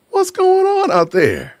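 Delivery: high, slow, drawn-out holler; calling out. Real, not acted. Host shouting out to his Naperville viewers, high and drawn out. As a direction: stretch it out like a shout across a field.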